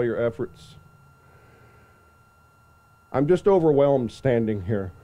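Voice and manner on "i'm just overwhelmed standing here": emotional, trembling voice; quivering voice. Real, not acted. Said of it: "hear my voice quivering".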